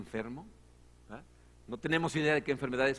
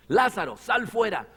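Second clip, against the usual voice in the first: shouting; 5 semitones higher, 8 dB louder, slower than usual. A narrator's reading. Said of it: "gritó con todas sus fuerzas".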